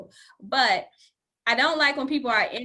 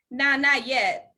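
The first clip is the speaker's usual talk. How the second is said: slow soft refusal; much slower than usual. Retold or imitated. To a suitor she rejects, slow gentle not yet. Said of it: "I was like".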